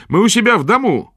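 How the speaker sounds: put-on high, earnest boy's voice; a lad standing his ground; young boy. A narrator's reading. Boy Potyk continues.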